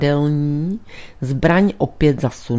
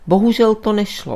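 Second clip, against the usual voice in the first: higher-pitched, mildly regretful reply; sincere regret; 6 semitones higher, 3 dB louder than usual. A narrator's reading. Priest admitting he could not look, regretful. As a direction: say it with a touch of honest regret. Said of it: "odtušil Brown s upřímnou lítostí".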